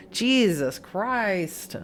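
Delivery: stunned whisper. Real, not acted. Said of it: "shocked reaction".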